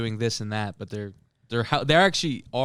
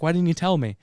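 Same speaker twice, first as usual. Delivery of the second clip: higher-pitched mock amazement; retold astonishment, pitched up; acted surprise; 7 semitones higher, 3 dB louder than usual. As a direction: exclaim it as a surprised question. Acted surprised reply from Pablo.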